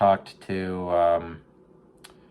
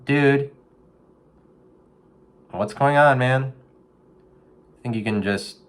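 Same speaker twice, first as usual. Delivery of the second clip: preachy pep talk to a raccoon; 6 semitones higher than usual. Retold or imitated. Speaking to a raccoon in a storm drain, preachy coach voice. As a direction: lecture the raccoon like a motivational coach. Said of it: "And I'm like".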